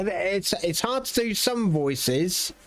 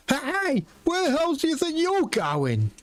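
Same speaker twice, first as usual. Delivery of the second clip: a higher, rough guard barking at a wanderer; gruff NPC call-out; 8 semitones higher than usual. Acted. Guard calling after the departing adventurer, mock stern. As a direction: call out to stop them leaving.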